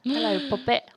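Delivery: high mock British "'ello, puppet"; playful British greeting with no H; British accent, dropped H. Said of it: "taken the H away".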